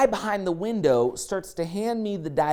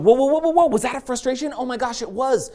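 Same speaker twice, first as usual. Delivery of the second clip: mock astonished realization; 7 semitones higher than usual. Speaker catching a frustration in the moment, high mock amazement. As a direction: stop yourself with high-pitched surprise. Acted sudden noticing of frustration.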